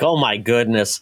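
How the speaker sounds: put-on slow, light Boris-and-Natasha Russian accent; a hint of a cartoon Russian spy accent. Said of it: "Natasha from Rocky and Bullwinkle accent".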